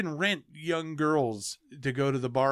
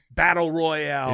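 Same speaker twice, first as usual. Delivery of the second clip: louder and slower, lingering on the title; a big, slow hype call of the movie name; hyped title reveal; 6 dB louder than usual. Acted. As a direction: reveal the title like the top prize.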